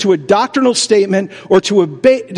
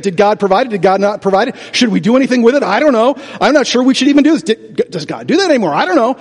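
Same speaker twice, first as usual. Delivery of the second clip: mock dithering believer; 3 semitones higher, faster than usual. Mocking hesitant believers.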